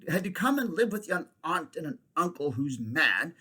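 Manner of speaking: high, voice cracking on going to die; boy near tears. Acted. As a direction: choke back tears as you go. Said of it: "trying to keep back the tears".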